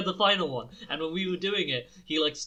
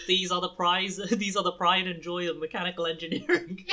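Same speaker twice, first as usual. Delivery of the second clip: proud announcement; 4 semitones higher, 3 dB louder than usual. Retold or imitated. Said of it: "he was like".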